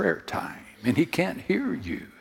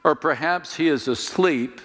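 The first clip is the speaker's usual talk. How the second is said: mocking Elijah. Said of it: "Elijah mocked them".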